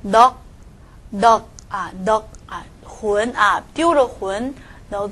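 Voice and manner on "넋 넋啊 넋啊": 넋 said as neok, ending on a stopped k; left-consonant reading. Shown as a demonstration. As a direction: read 넋 with the ㅅ silent. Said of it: "那么怎么读".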